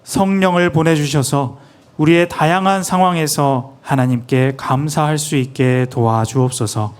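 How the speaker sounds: reverent prayer, measured and steady; interpreted prayer. Acted. Interpreter praying in Korean for the church, reverent. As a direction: pray it humbly for the people.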